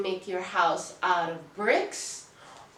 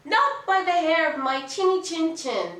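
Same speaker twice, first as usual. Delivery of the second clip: defiant pig, quick and higher; 7 semitones higher, 4 dB louder, faster than usual. Acted. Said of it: "the little pig answered".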